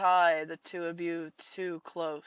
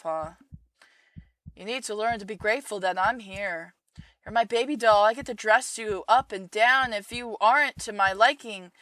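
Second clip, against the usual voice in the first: a raised, pushy mother voice; controlling mother; 3 semitones higher, 5 dB louder than usual. Acted. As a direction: lean in as the smothering mother. Mother voice again.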